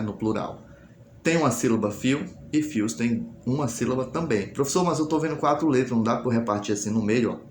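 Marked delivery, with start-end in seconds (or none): 4.5-7.4 lightly voiced pupil, quick; pupil's objection. Teacher voicing a pupil who objects, quick objection.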